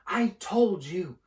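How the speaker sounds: high, slow, gasping insistence; breathless repeat. Acted. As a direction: press it out between gasps. Hermione repeats, still gasping.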